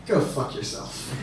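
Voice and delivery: slow, hushed friendly insult; casual mock cursing. Comic pretending an interviewer is his friend, softly cursing. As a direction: drop it soft and slow, almost under the breath. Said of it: "I curse with my friends most of the time".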